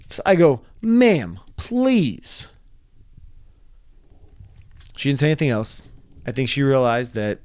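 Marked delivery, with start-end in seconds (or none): 0.8-2.5 high, strained plea; exasperated plea. Retold or imitated. Pleading with the woman to stop, high and strained. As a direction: beg her to stop, stretched out.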